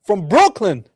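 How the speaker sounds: high, loud, drawn-out whoop; mock hype cheer. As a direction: holler it like a hammed-up hometown shout. Mock hype about her origins.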